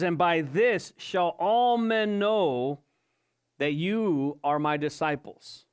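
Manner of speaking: slow, deliberate "And by this"; measured scripture quote; stress on this. Shown as a demonstration. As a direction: lean on "this" to point to it. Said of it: "he's giving an emphasis on the, the word this".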